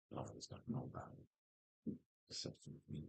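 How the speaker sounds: hushed sinister whisper; villain whisper. Pretend.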